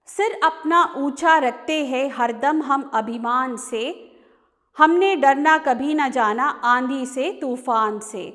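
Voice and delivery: measured Hindi verse reading with rhythmic line breaks; poem recitation. Acted. Teacher reading the short poem to students, poem recitation. Rereads next stanza aloud.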